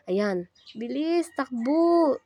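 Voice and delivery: out of breath, hurrying; while running. Real, not acted. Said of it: "Todo talaga ako dahil late".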